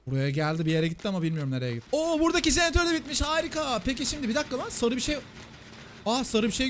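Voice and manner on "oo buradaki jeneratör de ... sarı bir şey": high, excited exclamation; high-pitched happy discovery; delighted surprise. Real, not acted. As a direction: react to an unexpected bit of luck, voice way up. Delighted surprise at finished generator.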